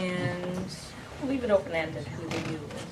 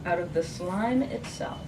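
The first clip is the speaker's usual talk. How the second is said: measured recital, each stanza starting strong; poem reading. Acted. Poet reading Testimony after its folk song epigraph, measured poem reading. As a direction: launch each sentence firmly, then let it settle.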